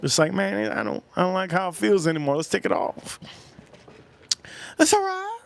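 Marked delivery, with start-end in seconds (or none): 2.4-3.2 hushed unvoiced whisper. Real, not acted. Aside while streaming. 4.8-5.4 very high squeaky mock voice. Silly reply voice.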